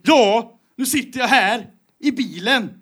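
high-pitched mock-angry rant in a put-on voice; Joakim Lamotte impression. Podcaster mimicking Lamotte stuck in his car, angry impression. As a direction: rant as an indignant man, pitched well up. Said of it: "Lamotte har vi försökt härma".

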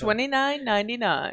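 over eager infomercial. Pretend. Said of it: "But wait, there's more".

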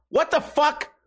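a startled what-the-hell reaction; sudden disbelief. Real, not acted. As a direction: pitch jumps up in real surprise. Confused by garbled news quote.

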